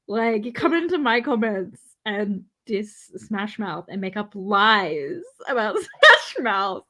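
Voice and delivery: hammed-up wounded friend, half laughing; mock heartbreak. Teasing Amy over comments about a band, mock hurt laughing sobs.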